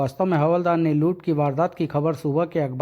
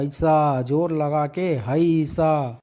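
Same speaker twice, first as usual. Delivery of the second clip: straining push; much slower than usual. Acted. Pushing the car, straining.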